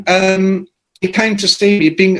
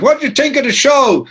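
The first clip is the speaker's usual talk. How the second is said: high put-on voice, asking; mock a singer; 12 semitones higher than usual. A singer asking Phil about the show, high put-on voice. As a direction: sneer the question in someone else's voice.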